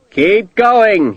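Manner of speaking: officer urging men forward; ordering. A narrator's reading. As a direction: urge the men on. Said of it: "he ordered".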